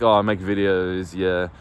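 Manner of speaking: mildly sheepish, half-hearted admission; unsure of oneself. Shown as a demonstration. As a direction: say it without backing yourself. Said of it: "of not backing yourself".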